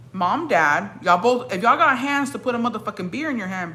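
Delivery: confrontational. Retold or imitated. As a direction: re-enact telling off two parents. Retelling how she confronted the parents.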